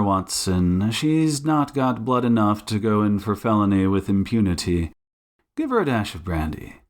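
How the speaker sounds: brisk-to-disdainful detective, lightly voiced; Sherlock Holmes. Detective tending fainting suspect, lightly disdainful command. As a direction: give orders, then remark with dry disdain.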